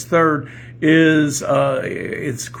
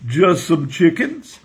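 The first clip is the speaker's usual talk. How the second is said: put-on slow, louder Kentucky joke accent; Southern accent; 3 semitones higher, 5 dB louder, slower than usual. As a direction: answer slowly in put-on Southern speech. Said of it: "I'm gonna have to talk like this".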